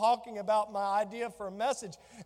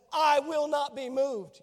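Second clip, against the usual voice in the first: stubborn husband; 3 semitones higher, 5 dB louder, slower than usual. Retold or imitated. Husband refusing to budge.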